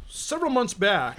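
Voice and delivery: speaking away from the microphone; turned away from mic. Real, not acted. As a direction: voice drifting off mic. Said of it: "You're off mic".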